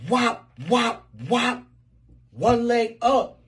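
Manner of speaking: loud, high hammed-up wop sounds; hammed-up exclamations. Comedian acting out a bedroom scene, loud and high. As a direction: punch each wop out big.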